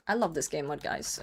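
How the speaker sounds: soft deadpan hostage line; mock forced cheer. Joking about being held hostage, soft deadpan. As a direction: say it like someone's forcing you.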